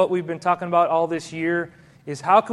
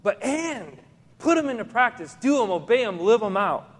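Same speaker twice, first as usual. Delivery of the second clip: Jesus pressing his listeners, higher and urgent; voicing Jesus, raised; 5 semitones higher than usual. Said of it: "But he said, he said".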